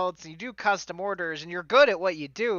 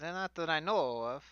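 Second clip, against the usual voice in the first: hammed-up fantasy Italian accent; bad stage Italian for a fantasy character; fake Italian accent; 5 dB quieter than usual. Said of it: "bad, fake fantasy Italian accent".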